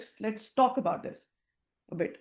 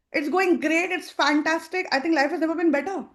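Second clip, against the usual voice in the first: louder and higher, glowing; confident and excited; 5 semitones higher, 4 dB louder than usual. Shown as a demonstration. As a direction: say it like you mean it. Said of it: "You see the tone, the energy?".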